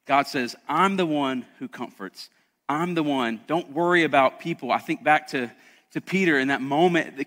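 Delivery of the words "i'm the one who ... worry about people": gentle God voice. Retold or imitated. God comforting, quiet.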